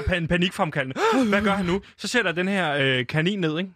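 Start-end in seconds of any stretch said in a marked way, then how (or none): 1.1-1.8 mock audience gasp. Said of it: "Så kommer der gisp".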